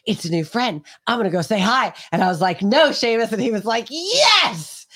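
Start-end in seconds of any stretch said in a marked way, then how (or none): 0.1-1.9 the dog begging to run off and say hi; excited dog building up; eager dog, more insistent. Retold or imitated. 2.6-3.3 firm, louder, higher no; sharp call to the dog. Retold or imitated. 3.9-4.9 very high, squeaky, cheeky yes; the dog defiantly bolting off; dog's voice answering its owner, high and gleeful. Retold or imitated. Dog voiced defying her.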